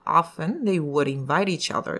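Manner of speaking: English linking with an audible w on would; clear W sound. Shown as a demonstration. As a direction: sound the w of would distinctly within the phrase. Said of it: "うを出していきましょう".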